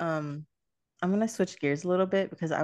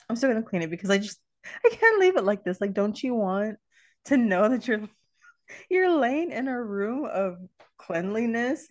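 exasperated plea; 5 semitones higher than usual. Retold or imitated. Mom pleading with daughter over messy room, exasperated. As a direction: beg her to see sense.

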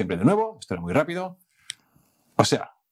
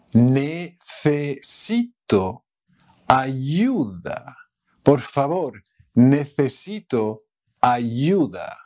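slow pleading demo; slower than usual. Shown as a demonstration.

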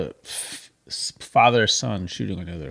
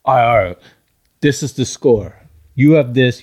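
loud bossy announcing; 6 dB louder than usual. Retold or imitated. Teen stopping game to call score.

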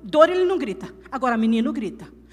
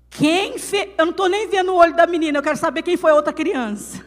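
hurried, louder mock-indignant demand; worked-up mother; 3 semitones higher, 6 dB louder, faster than usual. Mother at her child's school demanding who did it, comic fury. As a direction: demand the culprit, rushing the words.

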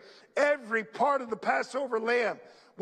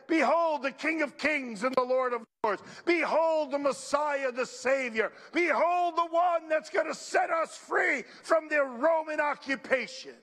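grand proclamation; 3 semitones higher than usual. Pretend. Imagined grand proclamation, building.

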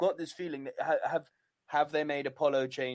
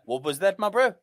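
lightly mocked South African accent; 4 semitones higher, 7 dB louder than usual. Host voicing offended South Africans, mock South African accent. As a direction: challenge a mate in a put-on South African accent. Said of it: "the people in South Africa".

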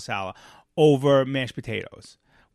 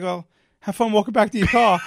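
louder, higher sarcastic sendoff; snide farewell; 6 semitones higher, 7 dB louder than usual. Retold or imitated. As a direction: taunt her as you leave. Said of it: "and I just literally like".

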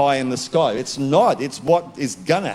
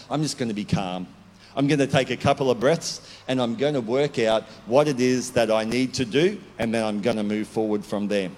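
calm self-talk; 5 semitones lower than usual. Pretend.

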